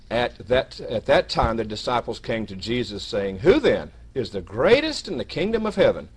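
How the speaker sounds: emphatic Bible reading; scripture reading. Acted. Preacher reads the disciples' question to brethren, emphatic scripture reading. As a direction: read it out, building to the disciples' question.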